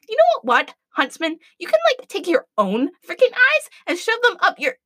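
high, heated insult; angry telling-off. Acted. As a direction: let him have it. Adriana tells Huntsman off.

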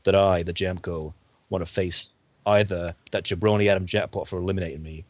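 a hint of a wrestling promo. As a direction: cut a promo, lightly hyped. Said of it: "I'm cutting a promo right now".

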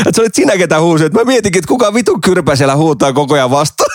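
mock-outraged friend, lightly played; amused imitation of an exasperated bidder; retold indignant realisation. Retold friend realises who outbid him.

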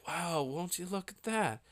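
soft, close-to-the-mic nonchalance; Joe Rogan. Retold or imitated. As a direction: murmur it right up on the mic, mildly impressed. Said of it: "He would get close up to his Shure S M seven B microphone".

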